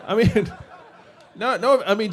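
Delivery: can't keep a straight face; real laugh cut into the words; laughing through it. Real, not acted. Laughing at the Jeb joke.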